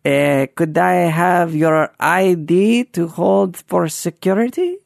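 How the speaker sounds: slow, halting, vaguely foreign put-on voice; put-on foreign clerk voice. Confused guide woman asking tourist for ID, put-on voice. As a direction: play a puzzled clerk, drawn out and careful. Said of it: "not supposed to be a French accent".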